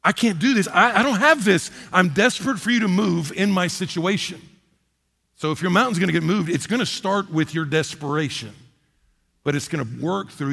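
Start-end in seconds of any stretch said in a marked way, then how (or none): 0.0-4.4 admitting need to God; humble pleading prayer; desperate confession. Pretend. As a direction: voice rising into a plea. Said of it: "best words you can say".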